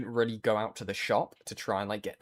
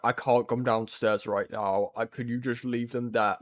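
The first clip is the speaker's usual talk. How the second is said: imitating sick voice. Sick streamer to the delivery driver, weak croak. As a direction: sound like you've been throwing up all night. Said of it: "This is what I sounded like".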